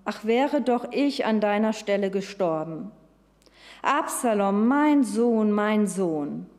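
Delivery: a touch of a father's lament, lightly voiced; mournful repeated calls for his son, held back; grieving cry. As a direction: read the cries with mild, understated grief. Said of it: "rief er immer wieder".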